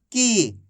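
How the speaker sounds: की held long and let fall; drawn-out long ī. Shown as a demonstration. Teacher modelling का plus matra for class, drawn out. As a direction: stretch the vowel of की. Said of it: "खींच खींच के इसका उच्चारण करना है".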